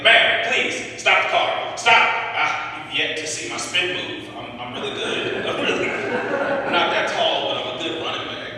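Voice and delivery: high, loud pleading; mock desperate begging. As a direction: chase the car, begging. Begging a white lady to adopt.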